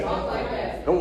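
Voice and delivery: whispered repeat of "Talk like that."; whispered echo of the call. Shown as a demonstration. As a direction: breathe the words back with no voice.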